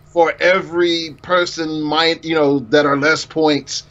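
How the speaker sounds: lightly hammed-up supervillain decree; mustache twirling villain. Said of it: "It's like".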